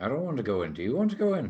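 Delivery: slightly squabbling, mildly bickering tone. Narrator voicing an unseen voice drifting to players in a side street, slightly squabbling. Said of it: "slightly squabbling conversation".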